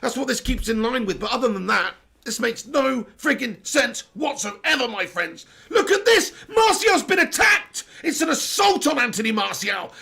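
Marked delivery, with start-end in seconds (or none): 5.7-9.9 much higher, louder, laughing outrage; outraged disbelief. Real, not acted.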